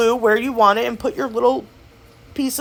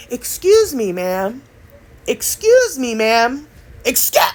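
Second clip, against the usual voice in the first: each "Excuse me, ma'am" a bit louder, building; getting louder; slower than usual. Shown as a demonstration. To an old lady who can't hear, growing louder. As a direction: repeat it, pushing a little harder each time. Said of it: "I'll get louder and louder".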